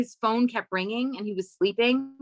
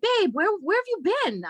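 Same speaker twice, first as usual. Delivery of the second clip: mock boyfriend; 10 semitones higher, 3 dB louder than usual. Boyfriend greeting her at bar.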